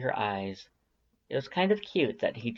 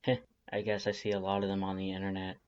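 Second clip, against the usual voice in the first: softer, fast, hushed aside; quick whisper; 3 semitones lower, 5 dB quieter, faster than usual. Acted. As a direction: keep it down so the others can't hear. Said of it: "Sans whispers".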